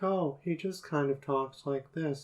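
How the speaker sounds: a hint of a deadpan, affectless man; flat voice. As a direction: imitate the dog handler's flat delivery. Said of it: "who has kind of a flat voice".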